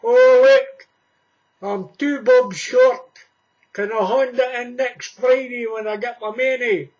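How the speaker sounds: mock pleading customer. Short of money, pleading with the shopkeeper for credit. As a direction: beg for credit at the counter. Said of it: "going into the shop and saying".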